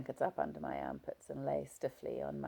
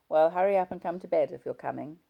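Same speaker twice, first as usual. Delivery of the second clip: impatient husband; 2 semitones higher, 8 dB louder than usual. Acted.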